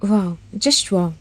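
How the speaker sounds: slow, soft mocking wow; sarcastic wow. A narrator's reading. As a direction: drag out the wow with scorn. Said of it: "అతడు చప్పట్లు కొడుతూ". (నెమ్మదిగా, వెటకారంగా wow)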